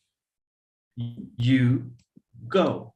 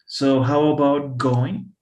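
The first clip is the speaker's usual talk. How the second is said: "going" drawn out slowly and louder; stress on going; 5 dB louder, slower than usual. Shown as a demonstration. Teacher stressing the ing form for the class. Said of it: "I N G".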